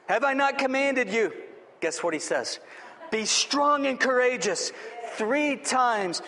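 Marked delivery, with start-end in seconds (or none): 0.1-1.3 higher-pitched, commanding challenge on "commanded"; emphatic. Acted. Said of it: "He's emphatic". 3.1-4.7 slow, higher-pitched command on "strong and courageous"; emphatic. Acted. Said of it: "He's emphatic".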